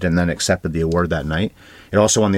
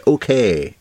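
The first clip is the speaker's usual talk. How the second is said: mock shrug; 4 semitones higher than usual.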